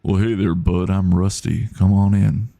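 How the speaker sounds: lightly voiced drawling American accent. Streamer trying another voice for Rusty, light American drawl. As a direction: try a laid-back American country accent, lightly. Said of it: "Or it could be like".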